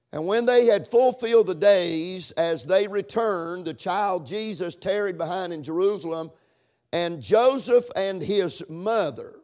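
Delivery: emphatic Bible reading, strong opening; scripture reading. Acted. Preacher reading the verse to the congregation, deliberate and emphatic.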